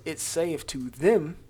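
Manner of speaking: slow, deliberate, "them" held long; stress on "them". Real, not acted. Teacher showing who the law addresses, stressing "them". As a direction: punch and stretch the word "them". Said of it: "I emphasize the word them".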